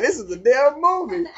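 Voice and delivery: loud, high amazed line; telling the ward it's a movie, loud and thrilled; excited exclaim. Retold or imitated. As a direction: announce it like a discovery. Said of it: "I'm like".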